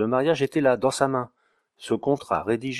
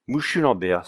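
put-on Romagné greeting in a light Auvergnat accent; hint of surprised Auvergnat cry; Auvergnat exclamation; 2 semitones higher than usual. Water carrier surprised by the notary, Auvergnat accent. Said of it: "s'écria Romagné".

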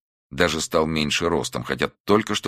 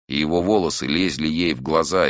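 plain reading voice

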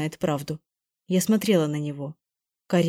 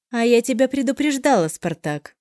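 louder and higher warning, dropping on the name; raised voice; 5 semitones higher, 3 dB louder than usual. Acted. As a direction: scold him with a raised voice. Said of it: "повышала голос женщина". (повышая голос)

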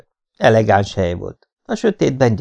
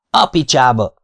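outburst; 4 semitones higher, 4 dB louder than usual. Acted. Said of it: "fakadtam ki".

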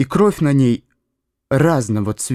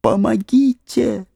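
cry for help; 10 semitones higher, slower than usual. A narrator's reading. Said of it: "а потом крикнул".

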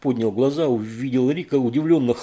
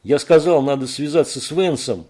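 insistent shout; 4 semitones higher, 6 dB louder than usual. Acted. Rick insists loudly.

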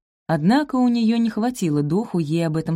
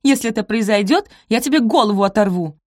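threat; 5 semitones higher, 5 dB louder than usual. Acted. Rosamund threatens Sophie.

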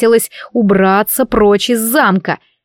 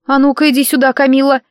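higher, insistent order; stern summons; 6 semitones higher than usual. Acted. Heroine pulls maid into the room to question her, stern. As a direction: call her over with indignant urgency.

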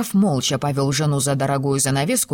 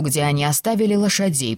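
plain reading voice

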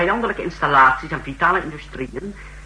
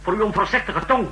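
higher and louder, throwing the warning back in his face; bristling, mocking retort; indignant; 5 semitones higher, 3 dB louder than usual. Marcos snaps back at Atrek's warning, indignant and louder.

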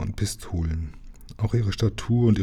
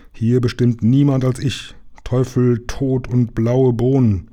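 commanding pirate captain; 3 semitones higher than usual. Acted. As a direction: lay down the law to the crew. (herrischer Hauptmann)

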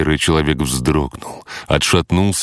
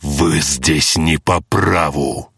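hissing entity; slower than usual. Acted. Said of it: "шипела сущность".

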